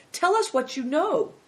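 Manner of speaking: high, loud urging; eager cry. A narrator's reading. Christian urges Little Snowbird to tell, crying out. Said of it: "cried Christian".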